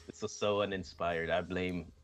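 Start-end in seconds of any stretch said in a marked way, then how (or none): 1.3-1.9 slow, worn-out hungover voice. Real, not acted. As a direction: drag the words, spent and hungover. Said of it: "I'm so hungover".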